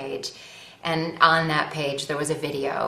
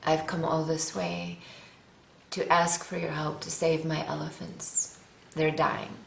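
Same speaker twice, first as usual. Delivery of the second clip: rough attempt at a Kenyan accent; badly done Kenyan accent; 3 dB quieter than usual. Actress retells a Kenyan conservationist's plea for his elephants, rough Kenyan accent. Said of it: "butcher the accent and do it badly".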